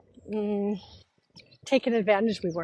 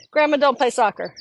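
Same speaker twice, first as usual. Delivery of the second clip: laughing grandma; 4 semitones higher than usual. Retold or imitated. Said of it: "she starts laughing".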